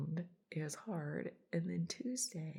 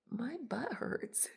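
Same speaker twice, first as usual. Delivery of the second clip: blunt butt hurts; 6 semitones higher, slower than usual. Retold or imitated. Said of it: "I usually say glutes".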